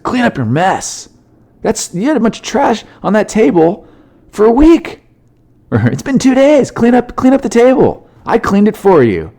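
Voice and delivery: mock-nag him about the mess; nagging wife. Wife telling her husband to clean the table, mock nagging.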